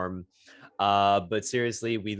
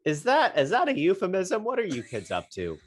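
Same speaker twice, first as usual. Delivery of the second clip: mock outraged scolding; 5 semitones higher, 4 dB louder than usual.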